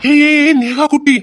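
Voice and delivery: soothing a crying little sister, alarmed; startled hush. Acted. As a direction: rush in to stop her crying. Brother startled, comforting crying sister.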